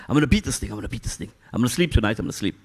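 quick repeated resolve, fading away; retold self-pep-talk. Man pacing the floor to himself, urgent self-talk. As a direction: imitate talking yourself through a sleepless night.

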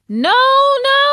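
high loud cry of no; shouted refusal. A narrator's reading. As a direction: refuse outright, voice shooting up. Pinocchio refuses Lampwick loudly.

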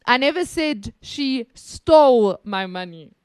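"stole" punched with a fall; stress on stole. Shown as a demonstration. Showing she only took it, stressing "stole". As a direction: lean on the word "stole". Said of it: "I didn't say she stole it".

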